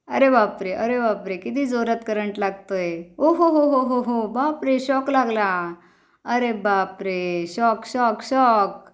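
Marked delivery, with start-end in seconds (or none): 3.2-4.3 shocked laughter. Pretend.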